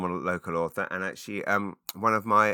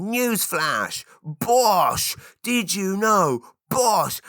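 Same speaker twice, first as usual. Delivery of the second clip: much higher, louder "Bosh!" punched out; triumphant announcement; 12 semitones higher, 4 dB louder, much slower than usual. Shown as a demonstration. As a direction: announce a scoop with glee. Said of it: "it's almost like going".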